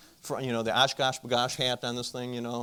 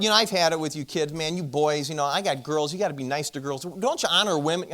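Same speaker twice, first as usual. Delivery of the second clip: mock scolding rant, slightly raised; retold yelling; 3 semitones higher, 3 dB louder than usual. Dad lecturing the neighbor boy about girls, mildly yelling. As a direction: rattle off a half-earnest telling-off, rising at the end. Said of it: "I'm just yelling at this kid".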